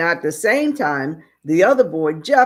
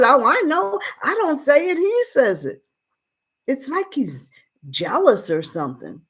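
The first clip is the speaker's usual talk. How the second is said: put-on boy's voice; 8 semitones higher than usual. Boy Mark answers his father.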